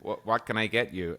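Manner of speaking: put-on American drive-thru greeting; amateur go at an American accent; attempted American accent. Shown as a demonstration. Drive-thru worker greeting a customer, attempted American accent. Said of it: "let's hear the accent".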